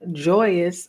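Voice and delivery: joyous broken by a real laugh. Real, not acted. Reader cracks up over the affirmation to Virgo, laughing. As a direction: laugh through the word joyous. Laughs while repeating the word.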